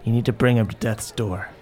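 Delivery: Zelda. Acted. Game master answers as Zelda.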